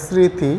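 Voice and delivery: স্মৃতি said as "sriti", the m fully dropped; careful demo of স্মৃতি as sriti; m-phala silent. Shown as a demonstration. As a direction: say স্মৃতি without any m, as "sriti". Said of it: "আমরা কিন্তু মফলার উচ্চারণই করলাম না".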